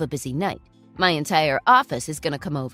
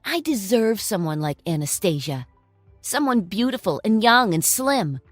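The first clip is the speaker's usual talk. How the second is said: contemptuous; 2 semitones higher, 7 dB louder than usual. Acted. Ex-husband berates ex-wife.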